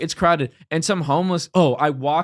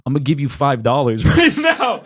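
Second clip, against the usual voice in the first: laughing punchline; 4 dB louder than usual. Retold or imitated. Punchline of mock-tough comeback.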